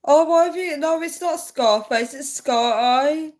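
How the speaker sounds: high, giggly and loud; giggly teasing. Real, not acted. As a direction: tease them between giggles. Teasing chat reply, laughing.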